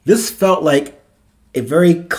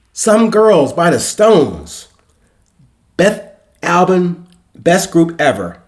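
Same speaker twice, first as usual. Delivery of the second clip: higher, drawn-out proclamation; proclaiming; 5 semitones higher, slower than usual. A narrator's reading. Cadet declaring his favourite album to his roommate, proclaiming. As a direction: proclaim it slowly, with conviction. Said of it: "Octavio proclaimed".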